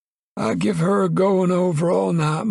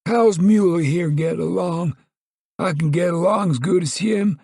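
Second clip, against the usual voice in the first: Grandpa cried out; 11 semitones higher than usual. Acted. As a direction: shout it high like a stubborn old coot. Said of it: "Grandpa cried".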